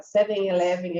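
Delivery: SEVEN ELEVEN run together as 'SEH-veny-eh-LEH-ven'; Brazilian-accented seven eleven; Brazilian pronunciation. Shown as a demonstration. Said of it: "aqui no Brasil e fala seven eleven".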